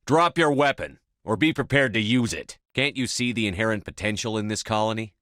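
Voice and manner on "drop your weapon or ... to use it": higher, forceful warning; commanding order. Acted. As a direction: bark the order to disarm. Ordering Zhang to disarm.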